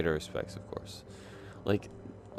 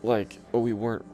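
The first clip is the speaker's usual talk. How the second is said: mock awkward fib; 5 semitones higher, 4 dB louder than usual. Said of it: "It's like".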